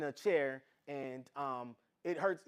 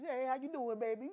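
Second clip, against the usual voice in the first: doting mother; 6 semitones higher, 4 dB quieter, faster than usual. Retold or imitated. Mother visiting her little son.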